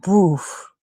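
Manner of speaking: soft airy "poof"; imitated puff. Speaker mimics the boxer's thrown punch, imitated puff. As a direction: puff out a feeble punch noise.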